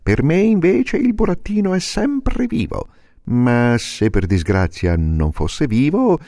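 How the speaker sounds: alta, con timbro diverso; civetta saccente. Acted. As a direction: contraddici come una civetta. Civetta contraddice. (civetta che contraddice)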